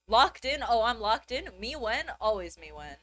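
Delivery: loud mocking bro "locked in"; hammed-up dude impression of the slang. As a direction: sneer it like a gym bro. Mocking men's brain rot slang.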